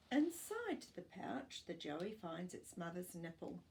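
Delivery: put-on clear, even storybook reading for young pupils; reading to children. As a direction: read it like a class picture book. Teacher reads picture book aloud.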